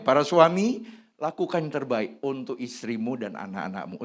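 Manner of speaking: usual speaking voice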